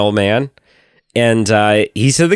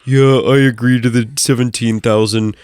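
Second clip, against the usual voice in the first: careless agreeing. Retold or imitated. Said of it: "it's like".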